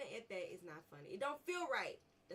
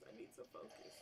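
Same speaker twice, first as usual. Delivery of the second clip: breathy giggled whisper; stifled laughter; 12 semitones higher, 10 dB quieter than usual. Real, not acted. Gamer giggles while urging himself to focus.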